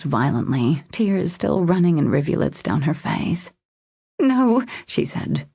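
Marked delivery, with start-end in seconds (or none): 4.2-4.6 high, upset refusal; pained, higher-pitched voice; voice cracking. A narrator's reading. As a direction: protest as if close to tears. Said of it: "her voice cracking".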